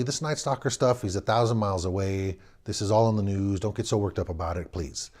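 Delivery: put-on calm the scared kid down; father soothing his nervous son; fatherly advice. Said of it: "in fatherly advice".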